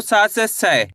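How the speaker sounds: "सा" then "सै", joining on the ai vowel; ai-matra demonstration. Shown as a demonstration. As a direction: slowly turn "सा" into "सै". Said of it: "आई का उच्चारण जोड़ना है". ("सा" से "सै" धीरे जोड़कर उच्चारण)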